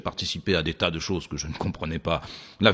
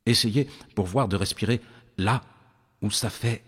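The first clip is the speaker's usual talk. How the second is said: voix de méditation lente, posée; voix de méditation guidée. Acted. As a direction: guider doucement, avec de longues pauses. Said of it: "la voix demande". (voix qui guide une méditation, lentement)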